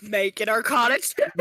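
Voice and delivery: muffled voice. Acted. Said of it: "It's just like a muffled voice".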